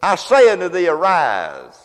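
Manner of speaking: loud, solemn command; commanding raise. Acted. Jesus raising Jairus' daughter with a command. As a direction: speak life into her with force. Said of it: "he said to her".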